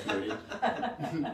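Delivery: slow, drawn-out put-on accent; Hamudi's accent. Naming the friend, slipping into his accent. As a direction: stretch the name out in the friend's accent. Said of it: "that's my other favorite accent".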